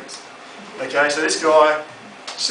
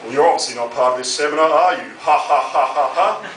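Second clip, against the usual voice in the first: pompous voice. Retold or imitated. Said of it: "in his pompous voice".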